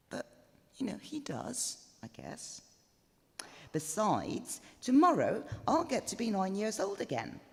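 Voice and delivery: a bride giddily spilling her diary secrets; bride Emily's diary voice. Acted. Emily confides her diary to the listener, lightly girlish. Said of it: "what our bride, Emily, wrote in a diary".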